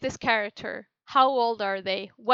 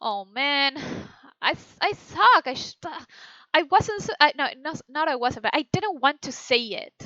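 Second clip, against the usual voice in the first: flustered self-annoyance; 3 semitones higher than usual. Shown as a demonstration. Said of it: "the first one".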